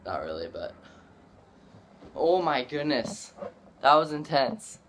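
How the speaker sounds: panting after holding breath. Real, not acted. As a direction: gasp it out, just surfaced. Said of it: "I literally almost died".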